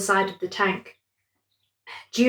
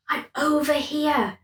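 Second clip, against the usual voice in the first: faint call; 6 semitones higher than usual. A narrator's reading. Amber's hidden voice calls.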